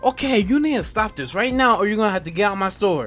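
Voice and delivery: manager snapping. Retold or imitated. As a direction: imitate a manager laying down the law. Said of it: "my manager snapped".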